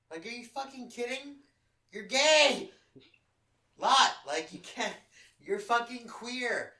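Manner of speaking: loud, high, outraged shouting at him; angry shouting. Retold or imitated. Reliving the fight, shouting at Lot in outrage. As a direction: yell it in disbelief, high and hard. Retold furious rant at Lot.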